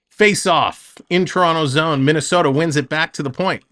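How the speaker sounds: quick, lively hockey call; play-by-play. Acted. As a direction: call the action as it happens.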